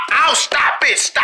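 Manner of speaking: high cry of protest; pained yelp. Acted. Patient reacts to doctor checking his head, pained yelp. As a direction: yelp as if it really hurts.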